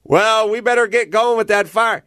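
high-pitched acted stage line; improv student's line. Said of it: "and they'll go".

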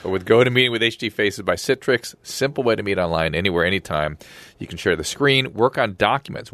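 upbeat pitchman read, brisk in places; live ad read. Acted. Cohost reads the sponsor ad to listeners, upbeat pitch. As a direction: sell the sponsor like a radio host.

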